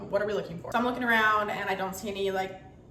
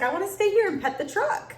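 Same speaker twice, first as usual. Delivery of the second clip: put-on devastated toddler; 9 semitones higher, 4 dB louder than usual. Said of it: "And he was devastated".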